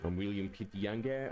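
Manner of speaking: plummy mock-English prime minister; posh British cosplay. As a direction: play the stuffy British statesman. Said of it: "Australian Prime Ministers back then used to cosplay".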